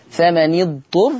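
فمن اضطر joined as "fama-ni-dturr"; kasra on the nun. Shown as a demonstration. Teacher shows Hafs's reading, "fama-ni-dturr" for فمن اضطر. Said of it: "لحفص هكذا".

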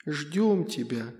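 put-on a hollow child's voice fading away; eerie ghost child. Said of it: "в моей голове всплыл его голос".

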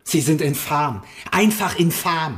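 furious scientist condemns Dorian, loud and slow; angry outburst. Acted. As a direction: spit out the contempt. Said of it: "das ihn wütend zu machen schien".

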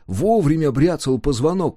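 plain reading voice

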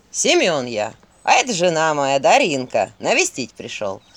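low, loud, folksy country voice; sly peasant devil. Acted. Devil posing as the dead husband greets Vasilisa, low loud folksy. Disguised devil introduces himself.

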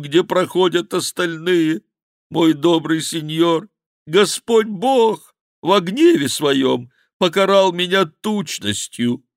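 high, loud, slow lament; wailing monk bewailing his fatness; crying out. Acted. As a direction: curse his own belly in despair. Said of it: "кричал монах".

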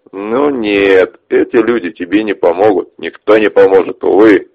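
mocking. Ches taunts victims.

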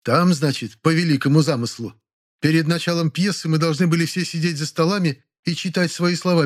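high mocking actress voice; scornful storytelling voice; sarcastic old actress. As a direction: ridicule the staging. Actress character voice held.

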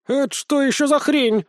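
high, squawking outrage; a furious hen demanding answers; indignant chicken. Acted. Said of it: "возмутилась она".

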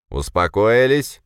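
slow, loud commanding question; stern call to order. Acted. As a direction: slam the room into silence. Хлопнул по столу.

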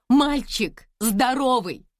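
slow, loud, high announcement; joyful shout. A narrator's reading. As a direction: call out the happy news. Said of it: "крикнула Лиза". (радостно выкрикнуть)

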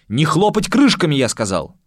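loud shout over the noise; almost shouting. Acted. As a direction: yell to cut through the racket. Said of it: "почти что прокричал".

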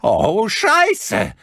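high, loud cry of panic; son's panicky high shout; panicked shout. A narrator's reading. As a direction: yell it out in sheer alarm. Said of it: "rief sein Sohn panisch".

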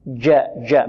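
جاء with ج made by the middle of the tongue; firm mid-tongue ج in جاء; jim from mid-tongue. Shown as a demonstration. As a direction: model جاء without any d colour. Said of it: "من وسط اللسان".

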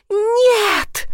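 high, crying cry of horror; scream. A narrator's reading. Girl screaming as father beats her dog, high crying scream. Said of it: "закричала я".

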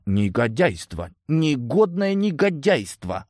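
slow, drawn-out sulk, climbing high; hurt pouting. A narrator's reading. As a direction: pout like an offended child. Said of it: "обиженно надулась голубика". (обиженно, протяжно дуется)

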